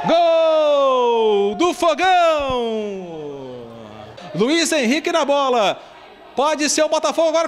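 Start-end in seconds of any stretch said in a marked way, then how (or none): 0.1-3.2 goal call. Real, not acted. Goal scream by commentator.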